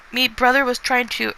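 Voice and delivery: put-on a clumsy stab at a thick foreign accent; little girl attempting English in a thick accent; attempted thick accent. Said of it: "that's apparently me doing a thick accent".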